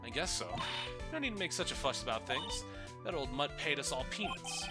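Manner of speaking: high, dismissive dummy; puppet voice. Acted. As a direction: shrug it off, bratty puppet. Puppet talks about murder.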